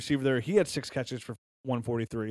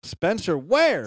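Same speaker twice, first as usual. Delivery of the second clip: dramatic announcer; 5 semitones higher, 5 dB louder, much slower than usual. Pretend. Dramatic introduction of a player.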